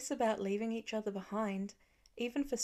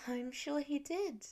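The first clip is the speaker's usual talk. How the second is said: soothing; 5 semitones higher, 3 dB quieter than usual. A narrator's reading. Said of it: "Lila soothed".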